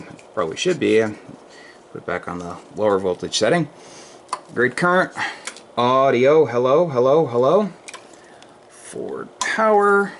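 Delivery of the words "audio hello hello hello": drawn-out rising hellos into the mic; steady test count over the air; radio mic check. Real, not acted. Ham operator testing his amp, radio check calls.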